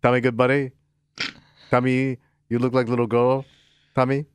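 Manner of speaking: lightly mimicked CB-radio buddy; mock radio call, short bursts with gaps; Teddy. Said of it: "Teddy always talks to me like we're C B buddies".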